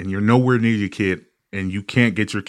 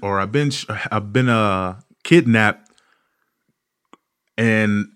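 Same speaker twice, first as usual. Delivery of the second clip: put-on scammer child voice. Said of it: "they'll go".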